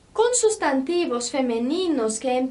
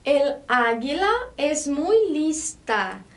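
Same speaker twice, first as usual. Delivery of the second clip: el águila es muy lista said slowly and clearly; careful classroom reading; slow model sentence; slower than usual. Shown as a demonstration. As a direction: read the example slowly to learners.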